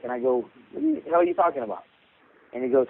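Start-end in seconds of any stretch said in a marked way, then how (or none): 0.7-1.8 quick, slightly higher baffled question; retold bafflement. Coach retells his answer to a puzzling offer, baffled. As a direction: act out your confusion, fairly fast. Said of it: "I have no idea what he's talking about".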